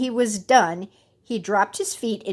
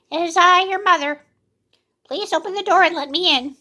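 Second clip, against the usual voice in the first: wolf faking mother, higher and louder; put-on sweet voice; 9 semitones higher, 5 dB louder than usual. A narrator's reading. Wolf tricking the kids, high sweet voice. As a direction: coax them sweetly.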